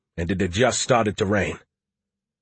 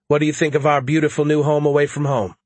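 cheerful woman voice; 5 semitones higher than usual. A narrator's reading. Sims voiced, proud.

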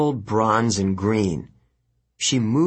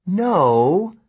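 sharp no; 8 semitones higher, 5 dB louder than usual. Acted. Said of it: "Kelly said".

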